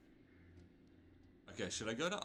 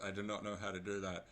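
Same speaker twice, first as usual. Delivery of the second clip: parser voice. Pretend. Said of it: "a parser version".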